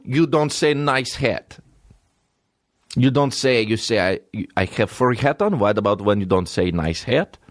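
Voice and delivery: put-on Russian-accented comic quarrel; mock Russian accent. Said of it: "imagine a Russian guy".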